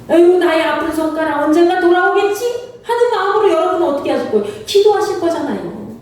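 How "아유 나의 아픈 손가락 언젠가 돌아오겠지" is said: a touch of sung yearning; longing sigh. Retold or imitated. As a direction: ache for the lost child, gently.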